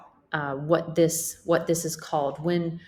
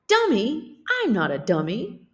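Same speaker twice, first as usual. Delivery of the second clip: indignant, higher and louder on dummy; offended; 5 semitones higher, 4 dB louder than usual. Acted. Character protesting to the teacher, indignant. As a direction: take offence at being called a dummy.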